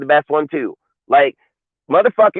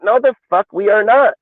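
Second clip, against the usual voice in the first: high, louder flat refusal, the fuck hit hardest; emphatic outburst; 8 semitones higher, 3 dB louder than usual. Real, not acted. Host shooting down a trade rumour, high emphatic outburst. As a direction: bark it out as an outright no.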